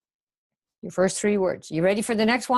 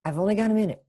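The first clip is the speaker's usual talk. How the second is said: lightly lifted line, falling at the end; lightly demonstrated phone-script delivery; demonstrated intonation; 2 semitones higher, faster than usual. Shown as a demonstration. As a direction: model the line with a fall on "minute". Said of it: "That's how you say it".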